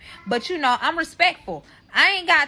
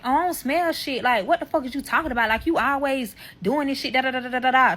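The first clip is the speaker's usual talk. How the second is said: higher-pitched mock protest; defensive mimicry; 3 semitones higher than usual. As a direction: mimic his irritated denial. Mimics his defensive argument.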